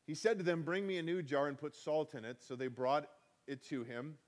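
measured reading of a Bible passage; scripture reading. Acted. Pastor reading scripture to the congregation, measured. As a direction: read the verses aloud, steady and clear.

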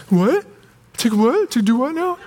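rising, high-pitched incredulous questions, imitated; baffled. Kid told by mom to go take another look, mock bafflement.

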